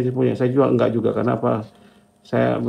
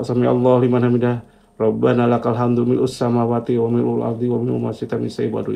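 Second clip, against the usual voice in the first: prayer recitation. Retold or imitated. Speaker recalls his words during sholat, prayer recitation. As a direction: recite Arabic in an even, flowing run.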